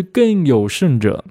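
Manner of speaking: "更有甚者" high, front and back nasals mixed up; muddled nasal endings. Shown as a demonstration. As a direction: blur -eng into -en in "更有甚者". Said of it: "前后鼻音不分了".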